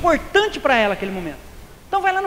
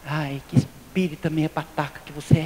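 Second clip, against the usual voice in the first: lower, softer teasing jab from the wife; wife teasing her husband, lightly mocking; 9 semitones lower, 7 dB quieter than usual. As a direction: tease him like a wife scolding lightly. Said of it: "a minha esposa vira e fala assim".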